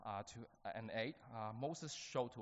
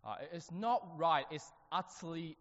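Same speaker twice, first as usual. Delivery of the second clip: fired-up outrage; 6 semitones higher, 6 dB louder than usual. Retold or imitated. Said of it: "he was quite fired up".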